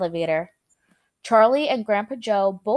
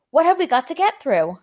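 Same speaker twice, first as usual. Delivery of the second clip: alarmed question; 6 semitones higher, 5 dB louder than usual. A narrator's reading. Grandpa Joe alarmed.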